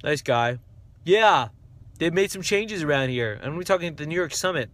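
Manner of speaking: put-on presenter voice; Robert C. Stern. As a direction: imitate a chatty host in quick bursts. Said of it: "Robert C. Stern's like this".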